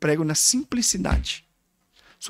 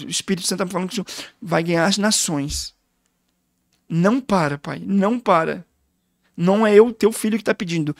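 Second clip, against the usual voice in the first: tearful pleading son. Retold or imitated. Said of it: "ele derramado, pastor, chorando".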